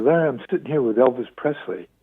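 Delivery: lightly voiced southern caller; southern accent. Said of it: "with a southern vo-, uh, accent".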